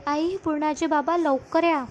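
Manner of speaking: mild mock shout. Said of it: "जोराजोराने ओरडू लागते".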